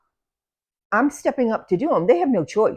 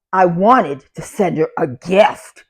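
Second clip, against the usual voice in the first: insistent; 6 dB louder, slower than usual. Retold or imitated. Old lady insisting after being refused.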